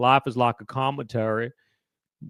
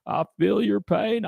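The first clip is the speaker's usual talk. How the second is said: Forrest Gump Clinton fusion; 4 semitones higher than usual. Retold or imitated. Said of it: "That's a good fusion".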